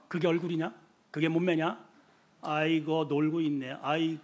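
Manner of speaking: low, soft, dismissive put-down; acted-out quiet sneer; scornful belittling. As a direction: grumble contempt under your breath. Acting out scornful words at home.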